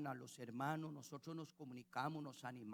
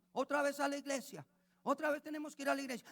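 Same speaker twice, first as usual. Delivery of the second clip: put-on high, louder whiny kid; whining child; 9 semitones higher, 6 dB louder, faster than usual. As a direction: complain like a fed-up teenager. Kids whining about church.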